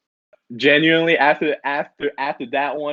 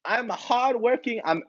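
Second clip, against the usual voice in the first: mock Asian accent; 3 semitones higher than usual. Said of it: "What kind of accent is that?".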